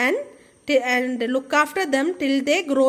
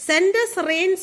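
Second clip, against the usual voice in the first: sobbing plea; 4 semitones higher than usual. Acted. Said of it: "sobbed the tin muddy trickle".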